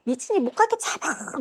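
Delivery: high, hushed imitation of a scream; mock yell. Girls calling out to catch her, mock yell held down. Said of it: "막 이러면 소리를 지르는 거예요".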